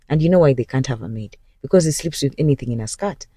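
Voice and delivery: secret, unvoiced whisper; whispered aside. Real, not acted. Telling viewers a juicy secret about the husband, whispered. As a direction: lean in and whisper the gossip.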